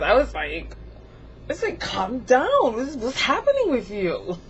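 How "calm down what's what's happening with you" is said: exasperated plea, swooping pitch; mock-scold someone who is acting up. Telling her own body to calm down, mock exasperated.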